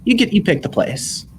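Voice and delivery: delighted, grinning agreement; beaming smile. Acted. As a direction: say it through a huge smile. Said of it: "she smiles a thousand watt smile".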